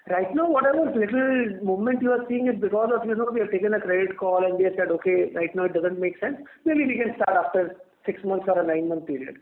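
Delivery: ordinary talk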